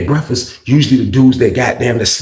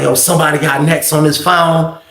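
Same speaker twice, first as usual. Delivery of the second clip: Terrence Howard voice; 3 semitones higher than usual. Retold or imitated. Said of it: "a Terrence Howard type of voice".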